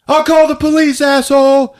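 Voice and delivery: high-pitched indignant yell; hammed-up shouted retort; acted shout back. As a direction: holler the threat back through the door. Retold shouting match through door.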